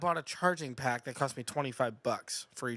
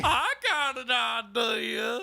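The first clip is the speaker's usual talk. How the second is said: high, slow, loud redneck caricature; 8 semitones higher, 5 dB louder, much slower than usual. Acted. Redneck calling to his buddy Cletus, high slow drawl. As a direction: drag it out as a comic hillbilly, high and loud. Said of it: "be like to be a redneck homosexual".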